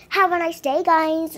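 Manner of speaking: full-voiced sign-off. Real, not acted. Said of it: "repeated louder".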